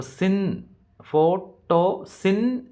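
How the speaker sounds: "സിൻ" picked out high after "ഫോട്ടോ"; "ഫോട്ടോ, സിൻ" in separate pieces, weight on "സിൻ"; stress on third syllable. Shown as a demonstration. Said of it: "മൂന്നാമത്തെ സിലബിളിലല്ലേ ഇവിടെ പ്രാധാന്യം കൊടുക്കുന്നത്".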